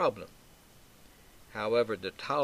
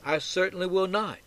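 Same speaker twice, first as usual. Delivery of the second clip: higher-pitched firm refusal; emphatically negative; 7 semitones higher than usual. Acted. Peter refusing to deny Jesus, emphatically negative. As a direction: insist on it, stressing "certainly". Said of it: "Peter's emphatically negative".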